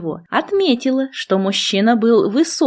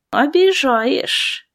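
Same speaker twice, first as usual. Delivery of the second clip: slow, drawn-out mock offence; 5 semitones higher, much slower than usual. A narrator's reading. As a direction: stretch the word lazily, feigning hurt. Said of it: "протянула".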